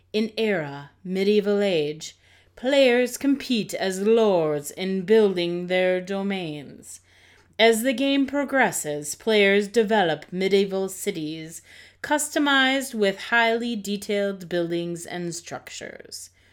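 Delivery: grand, stagey, dramatic, theatrical reading aloud. Reading a game's description aloud to co-hosts, as a dramatic reading. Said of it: "during that dramatic reading".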